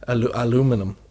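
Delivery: halting try at American "aluminum"; American-style "aluminum", no extra i; American pronunciation. Shown as a demonstration. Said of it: "about American accents".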